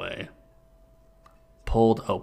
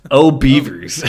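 louder, higher, laughing; mock catchphrase; 5 semitones higher, 12 dB louder, slower than usual. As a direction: exclaim it like a cartoon bear. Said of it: "the classic Winnie the Pooh catchphrase".

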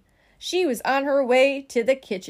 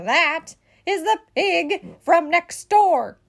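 slow, high, emphatic disgust; exasperated bossy sister; indignant explanation; 6 semitones higher, 5 dB louder, much slower than usual. A narrator's reading. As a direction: spell it out scornfully, word by word. Eugenia scornfully identifies the pig.

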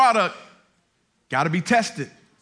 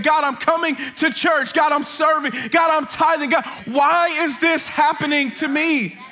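higher-pitched, impassioned preacher acting out a complaint; frustrated pleading; 5 semitones higher than usual. Preacher voicing Joseph's prayer in the middle season, frustrated pleading. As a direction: plead up to God, mounting exasperation. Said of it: "and was not frustrated".

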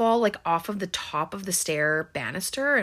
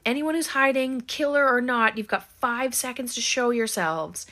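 raised-pitch call to people hiding; mock warning call; 5 semitones higher than usual. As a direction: call out a stern warning, acted out. Acted warning call through a house.

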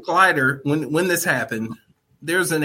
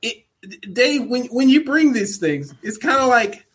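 still giggling; 11 semitones higher than usual. Real, not acted. Still recovering from laughing fit.

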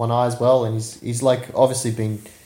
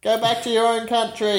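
mock racist local; 11 semitones higher than usual. Mocking imagined racist locals.

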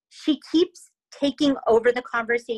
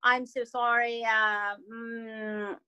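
lightly put-on South African accent, tailing off; attempted South African accent; 4 dB quieter, slower than usual. Shown as a demonstration. Trying it for cohosts, halting South African accent. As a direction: have a tentative go at South African. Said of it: "I, the South African a-, accent is".

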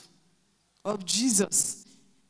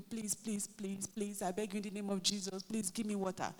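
put-on pleading child; 3 semitones lower, 6 dB quieter than usual. Child begging for water.

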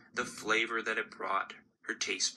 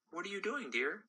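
mother; 10 semitones higher, 6 dB quieter, faster than usual. Acted. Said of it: "her mother looked down and said".

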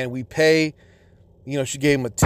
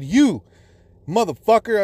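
indignant, raised-pitch call-out; retold angry accusation; 6 semitones higher than usual. Husband confronting the stylist over his wife's hair, retold angry accusation. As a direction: point the blame straight at him.

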